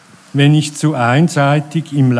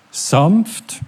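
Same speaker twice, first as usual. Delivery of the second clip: sanft lifted higher with a rising tune; stress on sanft; 5 semitones higher than usual. Shown as a demonstration. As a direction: lean gently into sanft. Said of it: "mit Betonung aus, auf sanft".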